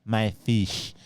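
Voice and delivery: very slow, drawn-out imitation; milk each word of the catchphrase; insistent customer catchphrase. Quoting the fish woman as a running joke, slow mock demand. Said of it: "we say it to each other all the time".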